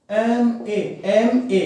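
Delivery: एमए starting clearly on ए; sounding out MA. Shown as a demonstration. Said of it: "लेकिन इसको देखो".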